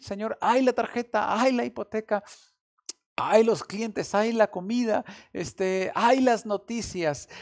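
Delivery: quejidos fuertes y agudos, lamento actuado; lamentándose ante Dios; ayes de queja. Retold or imitated. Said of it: "podríamos decir". (lamento exagerado de preocupación)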